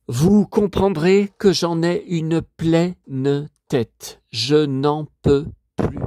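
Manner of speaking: slow, emphatic exasperation; fed up. Real, not acted. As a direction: spell out each word, worn out and insistent. Théâtralement à bout après ses démêlés. (exaspéré, en détachant chaque mot)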